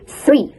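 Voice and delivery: "three" with a careful TH; model pronunciation. Shown as a demonstration. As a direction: demonstrate "three" for repeating. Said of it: "Repeat after me".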